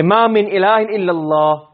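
"Ma min ilahin illallah" drawn out slowly and evenly; emphatic insistence. Shown as a demonstration. Teacher answering someone with a fixed opinion, slow emphatic insistence. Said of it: "you have this fixed, uh, opinion".

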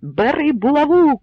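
loud high call to take the mace; shout. A narrator's reading. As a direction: urge him on with a cry. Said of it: "крикнув Кремезний". (вигук Кремезного)

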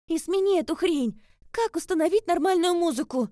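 loud high annoyed commands; irritated demand. A narrator's reading. Lis orders the phone to change the alarm, irritated. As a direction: snap at the gadget.

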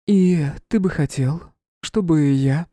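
high, disdainful queen voice; haughty queen. Acted. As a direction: sneer it like a disgusted queen. Queen asks.

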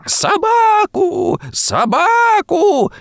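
put-on piercing child's scream, very high and slow. A narrator's reading. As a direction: shriek each word long like a tantrum. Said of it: "залился громче прежнего мальчик". (пронзительный детский крик)

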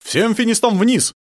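loud, high, slow military order; drawn-out commander's shout; commanding. A narrator's reading. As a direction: command the troops from the tower. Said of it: "скомандовал он".

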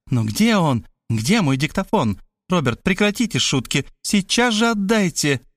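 self-justifying, then demanding; lightly voiced insistent woman. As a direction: play an insistent woman with a lifted voice. Voices Мархалёва to the narrator.

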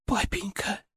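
high, thin squeak; squeaky girl voice. Acted. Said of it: "пропищала Златана".

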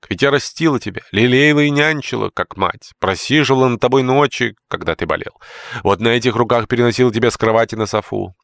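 wounded outburst. Acted. Old nurse reproaches George, hurt and indignant. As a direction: scold him, deeply hurt.

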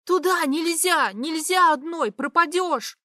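loud, high urgent pleading; desperate plea. A narrator's reading. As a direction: beg her to stop.

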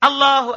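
"Allahu" held level in a measured chant tone; exact call tone. Shown as a demonstration. Teacher giving students the tone, measured "Allahu". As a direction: set the pitch on "Allahu". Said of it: "Nadanya harus pas".

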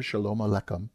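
shalom aleichem, sha-LOME a-LEH-chem; Hebrew greeting. Shown as a demonstration. Pastor teaching the congregation a Hebrew greeting, careful pronunciation. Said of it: "Literally means".

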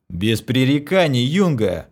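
loud commanding captain's growl; father's growl. Acted. Copying his father to order the girl, loud growl. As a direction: bark it like his father would. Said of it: "рыкнул я, копируя своего отца".

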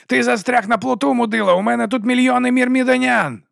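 yelling taunt. Acted. Raven keeps yelling threats.

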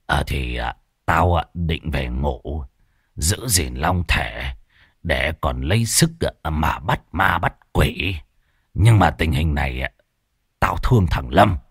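low, soft, halting; Môn Phọt stalling with lame excuses; hesitant mumbling excuse. Acted. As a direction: hem and haw, stalling for time.

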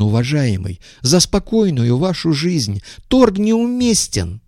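high, pleading-accusing petty voice; high-voiced visitor. A narrator's reading. Visitor accusing the businessmen, in a high voice.

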